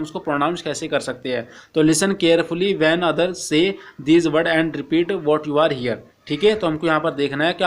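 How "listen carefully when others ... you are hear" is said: slow, careful reading of the English text; slow textbook reading. Acted. Teacher reading the textbook to Hindi-speaking students, slow and careful. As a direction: read each English phrase slowly for the class.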